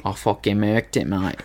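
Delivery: joking Australian twang; Australian accent. Acted. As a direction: put on a bad Australian accent. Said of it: "keep up with the Australian accent".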